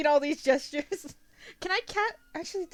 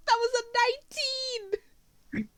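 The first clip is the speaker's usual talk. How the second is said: outraged disbelief; 11 semitones higher, 5 dB louder, slower than usual. Real, not acted. Failed roll.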